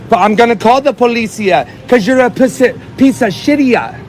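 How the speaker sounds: taunting fake Spanish ending tacked on, "shitia"; mock Spanish accent. Man insulting the driver, mocking Spanish accent. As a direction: sneer it out in a put-on Spanish accent. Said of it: "taking the piss out of a foreign accent".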